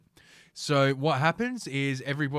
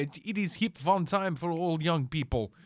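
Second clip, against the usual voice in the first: mock Russian accent; 5 semitones higher than usual. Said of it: "what the fuck was that accent?".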